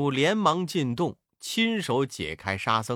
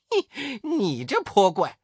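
angry accusation; 5 semitones higher, 5 dB louder than usual. A narrator's reading. Wukong confronts demon.

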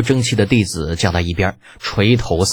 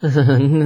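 forced laugh; 6 semitones higher than usual. Acted. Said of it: "挤出一个比哭都好不了多少的笑容".

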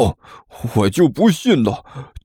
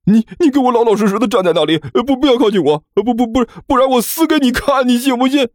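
high, stammering warning; panicked threat. Acted. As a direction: desperately fend someone off in a high voice. Panicked threat to keep him back. (惊慌失措地尖声威胁)

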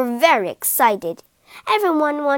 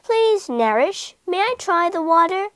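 small high-pitched polite request; little voice; 5 semitones higher than usual. A narrator's reading. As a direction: ask timidly as a tiny monkey. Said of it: "Then a little voice pricked up".

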